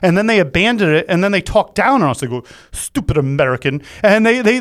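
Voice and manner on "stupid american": mock English accent, not very convincing; attempted English accent. Host imitating Brits talking down on Americans, poor English accent. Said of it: "It's not an English accent".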